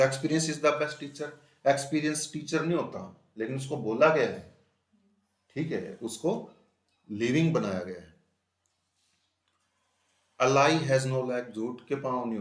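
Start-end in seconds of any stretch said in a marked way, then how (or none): 0.0-1.3 slow, loud, word by word; spaced dictation reading. Shown as a demonstration. Teacher repeats example sentence. 10.4-11.5 slow and loud, word by word; emphatic slow reading; slow dictation. Shown as a demonstration. Teacher reads example slowly.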